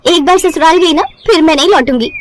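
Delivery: high, proud declaration of एक बार ससुराल गई ना; boastful vow. Acted. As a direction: bride boasts to mother she won't return, proud and high. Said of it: "क्या dialogue मारा था तूने।".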